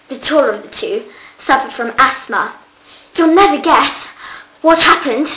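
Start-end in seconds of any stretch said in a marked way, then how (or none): 3.1-5.3 excited gasp. Acted. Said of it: "he gasped".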